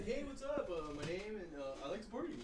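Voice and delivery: lightly mocking a dumb friend's pickup line. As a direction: parody a clueless guy hitting on girls. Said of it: "always saying that".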